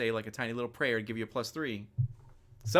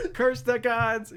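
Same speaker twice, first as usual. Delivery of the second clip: hammy slow curse; 10 semitones higher, 6 dB louder, much slower than usual. Acted. Echoing the curse dramatically.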